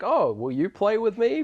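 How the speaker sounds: put-on innocent little girl. Little girl asking the monster to play, innocent and high. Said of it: "Very innocent".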